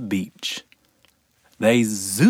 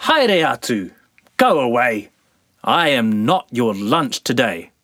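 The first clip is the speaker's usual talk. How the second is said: loud mock shout; shouting girl; 3 dB louder than usual. Girl shooing sandflies, loud mock shout. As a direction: shoo them off loudly.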